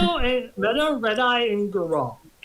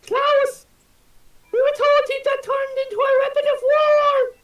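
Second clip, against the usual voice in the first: higher, excited worker voice; startled worker; 6 dB louder than usual. Acted. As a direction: gasp it out like a shocked labourer.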